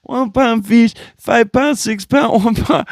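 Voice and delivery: mock street-vendor sales chant; imitating the one pound fish seller. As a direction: hawk fish to passing ladies like the one pound fish guy. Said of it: "And he's doing the".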